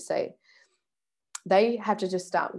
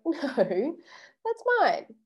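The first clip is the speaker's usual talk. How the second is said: weak no; 8 semitones higher, much slower than usual. Shown as a demonstration. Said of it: "you haven't really said no".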